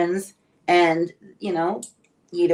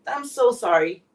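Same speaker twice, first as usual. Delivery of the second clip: tearful; 2 semitones higher, slower than usual. Real, not acted. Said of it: "I'm sorry that I'm getting so emotional".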